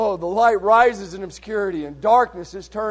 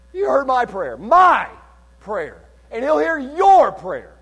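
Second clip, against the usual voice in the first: "My" and "your" punched high and loud; stress on My and your; 4 semitones higher, 5 dB louder, slower than usual. Real, not acted. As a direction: hit "My" hard, then lift "your" to match. Contrasting my prayer with your prayer.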